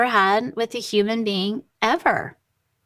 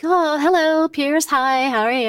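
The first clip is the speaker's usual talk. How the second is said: bright, cheery phone greeting, a bit higher; all serene; 5 semitones higher than usual. Retold or imitated. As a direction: sound blissed-out after yoga. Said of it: "you know, all serene".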